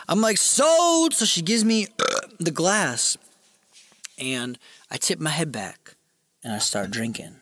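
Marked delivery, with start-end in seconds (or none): 0.4-1.1 high, stretched-out mock cry of agreement; eager acceptance. Man accepting a discount, high eager cry. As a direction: leap at the bargain, much higher.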